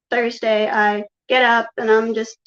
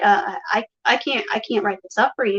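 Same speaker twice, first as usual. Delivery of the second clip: imitating a flustered false start; stuttering. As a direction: restart the sentence haltingly. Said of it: "stuttering and he's like".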